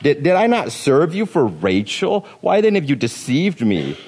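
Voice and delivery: mildly indignant accusation; irate. Acted. Jacob confronting Laban over the swapped bride, irate. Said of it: "irate probably was the".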